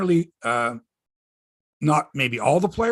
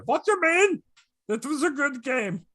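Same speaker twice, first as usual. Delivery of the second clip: higher, Eastern European mock accent; Samsonov Schmengi accent; 10 semitones higher than usual. Teasing the goalie's English, higher mock Eastern European accent. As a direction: goof on the goalie's interview voice, higher. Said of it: "having some fun with the way he sounds".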